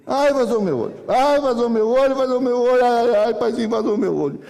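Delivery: hammed-up boyish cries of agony; faked pain wailing. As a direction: wail to dad like a kid faking an injury. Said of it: "eu já menti que pegou no olho".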